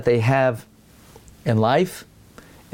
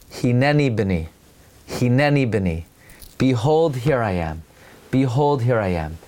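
gentle father; 3 semitones lower than usual. Acted. Avraham answers son gently.

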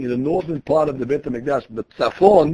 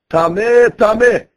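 higher, louder called-out warning; mild mock scream; 5 semitones higher, 5 dB louder, slower than usual. Metzorah warning everybody as he leaves camp, mock scream. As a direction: call it out, a half-hearted scream. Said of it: "he has to scream on top of his lungs".

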